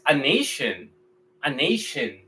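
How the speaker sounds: a nation softly, nay-shun; English pronunciation. Shown as a demonstration. Teacher modeling English for students, softly. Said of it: "pero en inglés".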